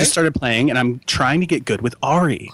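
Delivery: lightly voiced email writer with pitch jumps; put-on reader voice. Host reading Ryan's email to co-host, put-on lilting voice. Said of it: "I'm gonna read this in a voice".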